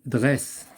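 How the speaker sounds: "Dresse" ending on a voiceless s; S prononcé S. Shown as a demonstration. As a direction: say "Dresse" with a clear final s sound, not z. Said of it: "il se prononce S". (« Dresse » avec le son S final bien net)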